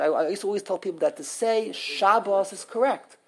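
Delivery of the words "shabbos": SHAB-bos, weak final syllable; Yiddish first-syllable stress. Shown as a demonstration. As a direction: lean on Shab in Shabbos. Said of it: "Shabbos is the Yiddish way".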